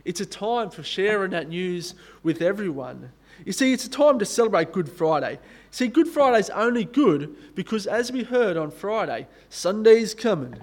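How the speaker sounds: a light attempt at an African American preaching accent; mildly put-on African American accent, celebratory. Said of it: "That was my best, um, attempt at an African American accent".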